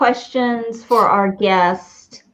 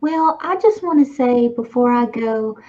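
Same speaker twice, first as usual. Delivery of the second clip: Sam. Pretend. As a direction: gossip as a pretend creepy fly. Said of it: "You have just found the Sam".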